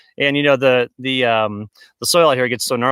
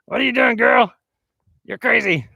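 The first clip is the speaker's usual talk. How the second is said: high, teasing pet voice; playful dog talk; 8 semitones higher than usual. Real, not acted. Owner to dog who wants to play, playful teasing. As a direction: tease a beloved dog, voice pitched up.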